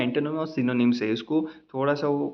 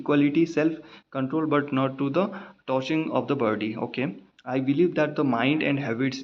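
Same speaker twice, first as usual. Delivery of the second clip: slow, halting passage reading; measured exam-paper reading; slow reading aloud; much slower than usual. Shown as a demonstration. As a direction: read every word out carefully. Teacher reads exam passage aloud.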